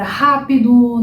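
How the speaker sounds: rápido with a breathy h-like R at the start; strong R sound. Shown as a demonstration. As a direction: open rápido with an English h for the R. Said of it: "Ele vai ter este som, que é um som mais forte".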